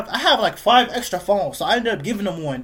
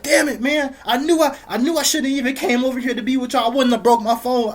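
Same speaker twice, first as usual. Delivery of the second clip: a higher, mildly imitated whiny complaint; upset brother; 5 semitones higher than usual. Little brother whining about his broken phone, mild mock upset. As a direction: lightly play the sulking little brother.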